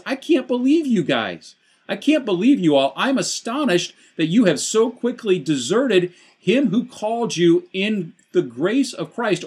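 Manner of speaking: high, loud, appalled disbelief as Paul; astonished Paul. Retold or imitated. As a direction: voice Paul's shock at the Galatians. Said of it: "He says".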